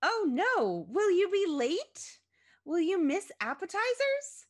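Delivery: high, loud, hammed-up panic; gasped. A narrator's reading. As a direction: melodramatic mother aghast at bad news. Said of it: "her mother gasped".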